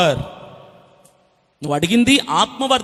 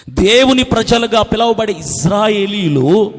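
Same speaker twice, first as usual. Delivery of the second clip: ordinary talk, nothing marked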